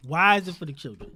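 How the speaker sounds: call-and-response preaching; preacher voice. Pretend. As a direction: ask it like a preacher. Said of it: "I'm asking the congregation".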